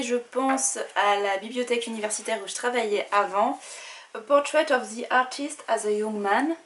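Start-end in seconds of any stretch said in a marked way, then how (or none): 4.1-6.6 English title read with a strong French accent. Real, not acted. Booktuber apologizing for her clumsy English, heavy French accent. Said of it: "Vous pardonnerez mon accent anglais tout pourri".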